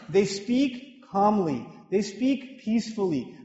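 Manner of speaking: slow, peaceful demonstration of calm speech. Shown as a demonstration. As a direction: draw out "they speak calmly" gently, slowly.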